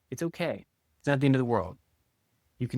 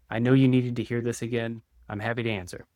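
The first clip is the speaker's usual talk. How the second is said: validating. Shown as a demonstration.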